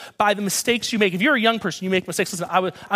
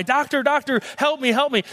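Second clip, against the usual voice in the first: higher-pitched cry for help at normal volume; mock yell for help; 5 semitones higher than usual. Trapped man calls to a passing doctor, mock yell. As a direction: call out urgently but without real shouting. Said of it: "starts yelling to the doctor".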